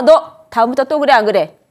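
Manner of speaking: put-on loud, sharp scolding of a child; angry scolding. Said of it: "강압적으로 화를 내면서". (화내며 아이를 다그치는 말투)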